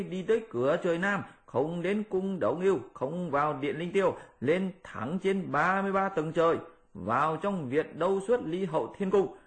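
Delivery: high, brisk monkey voice; lively high Monkey King. Acted. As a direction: boast the heavenly route eagerly. Monkey lays out plan.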